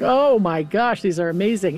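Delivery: awed amazement. Retold or imitated. Judith to Bluebeard on seeing his jewels, lightly acted amazement. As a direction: play mild wide-eyed amazement.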